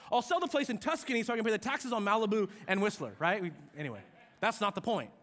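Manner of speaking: ordinary delivery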